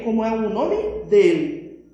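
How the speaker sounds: ordinary delivery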